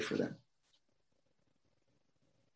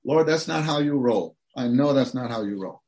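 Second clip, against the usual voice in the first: casual paraphrase of Abraham; 2 semitones higher, 4 dB louder than usual. Retold or imitated. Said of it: "people would say".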